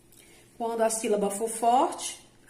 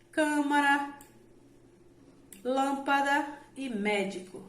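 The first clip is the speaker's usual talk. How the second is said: câmara, lâmpada, médico, each stressed on the first syllable; antepenultimate-syllable stress; 4 semitones higher than usual. Shown as a demonstration. Teacher giving examples of proparoxítonas, stressing the first syllable of câmara, lâmpada, médico. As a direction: raise and weight CÂ in câmara, LÂM in lâmpada, MÉ in médico. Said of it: "a sílaba tônica recai sobre a antepenúltima".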